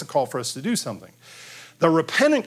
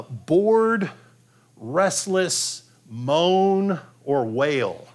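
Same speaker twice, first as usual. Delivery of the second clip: whiny wail; 4 semitones higher, much slower than usual. Shown as a demonstration. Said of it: "whining sound".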